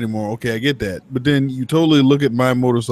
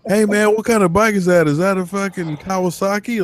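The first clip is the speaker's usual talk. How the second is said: curious bro biker; 5 semitones higher than usual. Retold or imitated. Guys quizzing him about bike.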